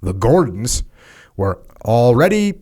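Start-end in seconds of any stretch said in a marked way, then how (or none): 1.8-2.5 high, punchy parade-ground calls, lightly acted; mock drill commands. Mocking the drilled pros with barked parade-ground orders. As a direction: bark out drill orders like a sergeant.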